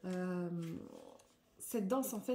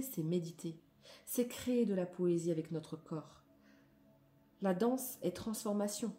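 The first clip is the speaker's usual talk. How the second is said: declamatory reading. Acted. Reads card text aloud.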